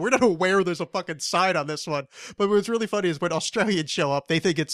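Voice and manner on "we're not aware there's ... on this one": deadpan. Retold or imitated. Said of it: "in deadpan".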